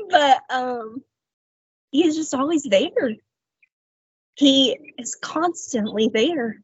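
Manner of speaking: really moved, halting with long pauses; holding back tears while speaking; tearful. Real, not acted. Woman testifying that God is always there, tearful. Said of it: "I'm gonna cry".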